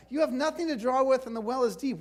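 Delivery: a light scoff at the stranger, "have" leaned on; mock-skeptical woman, edge in the voice; sarcastic attitude. Shown as a demonstration. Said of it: "read this with a little bit of attitude".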